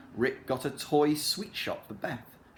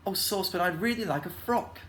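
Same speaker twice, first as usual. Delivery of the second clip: put-on a lightly higher girl's voice; Beth voice; 7 semitones higher than usual. A narrator's reading. Beth telling Saucepan she wants a frock, light girl voice. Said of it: "said Beth".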